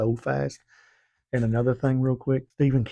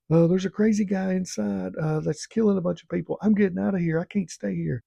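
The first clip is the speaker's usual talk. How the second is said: mock panic; 10 semitones higher than usual. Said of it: "he's like".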